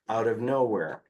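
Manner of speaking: ordinary talk, nothing marked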